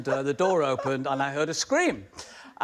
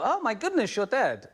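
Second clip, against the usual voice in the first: mock shock; 9 semitones higher than usual. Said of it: "they go".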